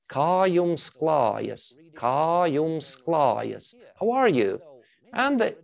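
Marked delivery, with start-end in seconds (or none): 0.1-3.7 kā jums klājas read slowly, stress on kā; slow Latvian phrase. Shown as a demonstration. Teacher reading a Latvian greeting slowly to students. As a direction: spell out kā jums klājas syllable by syllable. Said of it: "let me read it out".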